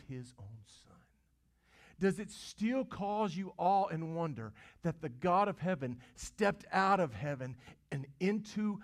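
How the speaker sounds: preacher's impassioned climax; fervent preaching. Real, not acted. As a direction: swell with wonder.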